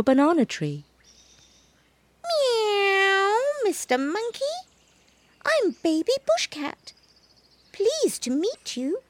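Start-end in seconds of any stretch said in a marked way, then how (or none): 2.2-9.0 very high, soft kitten voice; a shy kitten introducing himself; polite kitten. A narrator's reading. Baby cat politely greets the monkey, high and soft. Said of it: "said the monkey".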